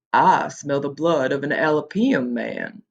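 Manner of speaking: slow, lightly menacing giant voice; a touch of fee-fi-fo-fum; deep growl. Acted. Cyclops smells the boys, slow light growl. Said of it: "His voice was a deep growl".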